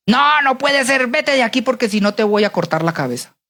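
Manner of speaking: mock-angry royal refusal; angry king. King throwing the happy servant out, mock angry. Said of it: "el rey todo enojado le dice".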